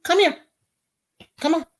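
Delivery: high coaxing call; calling the dog. Real, not acted.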